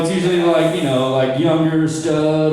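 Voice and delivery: ordinary delivery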